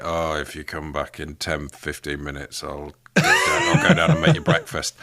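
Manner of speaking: groggy, barely awake, mumbling; lightly voiced half-asleep king; sleepy King Arthur. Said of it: "It's like".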